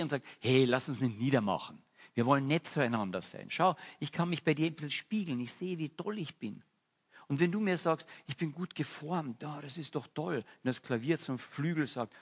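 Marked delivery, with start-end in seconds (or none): 0.4-10.4 friendly piano. Acted. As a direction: coax the others into being kind. Piano voiced pleading for kindness.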